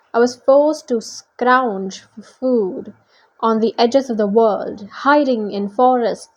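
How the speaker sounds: theatrical villain monologue, stretched words; French-accented monster monologue; villainous Manticore, grandly aggrieved. Acted. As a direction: declaim the grievance, building to a threat. Manticore speech in story.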